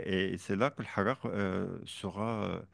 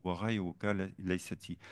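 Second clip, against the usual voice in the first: poem recitation. Shown as a demonstration. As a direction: recite the Arabic verse in measured rhythm. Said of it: "Et, euh".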